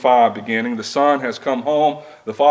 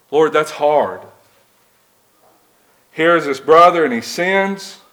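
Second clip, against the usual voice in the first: complaining disciple; 3 semitones higher than usual. Pretend. Preacher playing the apostles pleading with Jesus, mildly exasperated. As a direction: plead like a follower who finds it too much.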